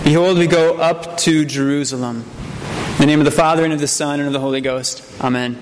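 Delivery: formal, measured pulpit invocation; solemn invocation. Acted. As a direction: intone the blessing before the sermon. Opening verse and invocation before sermon.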